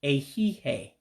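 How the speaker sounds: "A he, hey" as three measured syllables, ay-hee-hay; model pronunciation. Shown as a demonstration. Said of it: "One more time".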